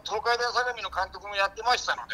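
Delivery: ex-ballplayer pundit impression. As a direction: carry on in an impersonated commentator's voice. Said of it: "掛布正輝です". (掛布のものまねで解説口調)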